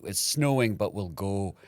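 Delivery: put-on determined mother in Scottish accent; Scottish mom. Mom insists on seeing the film, Scottish accent. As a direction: imitate a stubborn Scottish mom. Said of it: "your mom's Scottish accent".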